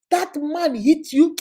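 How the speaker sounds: slow, loud mock outrage; outraged brother. Brother hearing sister was hit, slow loud outrage. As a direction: drag out the shock.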